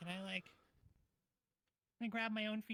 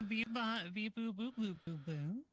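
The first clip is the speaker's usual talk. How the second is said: higher, sing-song alien beeps; 4 semitones higher than usual. Pretend. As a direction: chirp like a little alien. Beeping alien noises.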